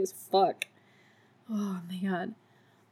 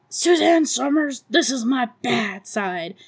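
yelling; 3 semitones higher, 3 dB louder than usual. Retold or imitated. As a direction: snap her name out in a yell. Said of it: "And Beverly yells".

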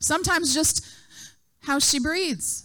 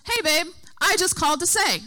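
higher, lightly voiced sweet mom; mom's sweet little voice; 5 semitones higher than usual. Mom greeting her daughter on the phone, sweet little voice. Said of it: "my mom's sweet little voice".

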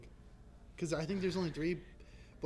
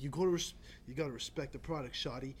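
put-on Baltimore accent; 2 semitones lower, 4 dB quieter than usual. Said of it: "He'd be like".

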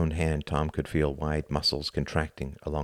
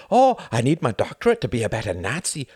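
raised, whiny parody of a friend; mocking imitation; 6 semitones higher, 4 dB louder than usual. Tom quoting Hart's excuse back at him, mocking. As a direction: mimic him with scorn. Tom mimics Hart scornfully.

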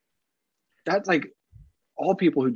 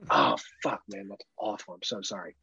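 low, soft, muttered condolence; canned low sympathy; 6 semitones lower, 5 dB quieter than usual. Shown as a demonstration. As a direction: drop low and quiet, shaking the head. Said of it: "my default canned".

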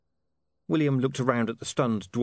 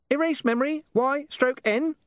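giggly sneering imp; 3 dB louder than usual. Acted. Imp prompt voice.

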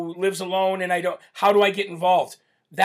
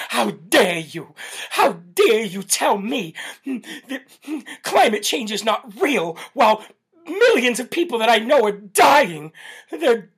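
shaking with anger; 3 semitones higher than usual. Retold or imitated. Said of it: "Greta Thunberg".

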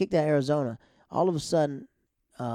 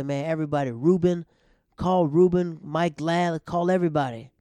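louder and higher, urging everyone to come; rally the old gang, eager and pushing; excited pleading; 4 semitones higher, 7 dB louder than usual. Retold or imitated. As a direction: friend begging to call everybody for a reunion, excited. Friend urging a reunion, calling names.

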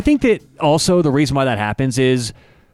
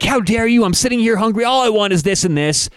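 higher, haughty mock outrage at the staff; indignant Karen; 7 semitones higher than usual. Imitating Karen scolding the Taco Bell staff, indignant and higher. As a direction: imitate an entitled customer, pitched up. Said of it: "the way she talks to 'em".

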